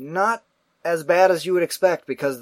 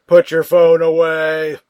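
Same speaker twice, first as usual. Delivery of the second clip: slow, louder stern order; firm slow command; 3 semitones higher, 8 dB louder, slower than usual. Retold or imitated. John tells the man with the bright phone, firm loud slow order. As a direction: lay down the law, each word deliberate.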